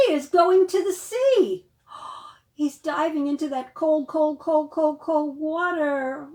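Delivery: loud, high excited read; excited storytelling. A narrator's reading. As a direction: thrill the kids with it.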